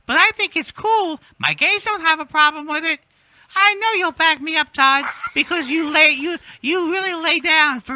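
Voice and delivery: raspy voice with eagle shrieks; Kathy Griffin. Retold or imitated. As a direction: rasp it out with shrill shrieks. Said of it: "Kathy Griffin voice".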